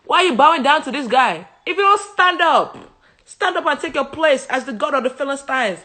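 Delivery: mock exasperated worshippers laughing; pleading, laughing. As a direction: coax the fallen idol up, half laughing. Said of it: "They said".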